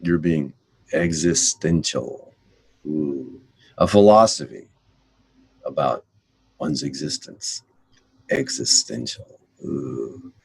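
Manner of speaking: mock awe. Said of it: "pondering your existence".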